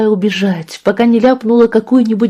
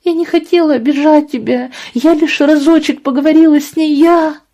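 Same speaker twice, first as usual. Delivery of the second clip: put-on tearful girl; 8 semitones higher than usual. A narrator's reading. Tearful girl apologises to mother.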